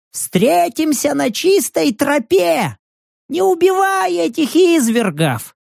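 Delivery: put-on old man's voice. Old vagrant thanking the hero while hurrying away. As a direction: play the grateful fleeing old man.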